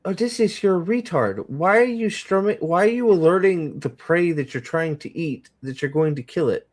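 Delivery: high, incredulous mock scolding; exasperated rant. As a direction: scold him in disbelief. Mocking Odysseus, exasperated.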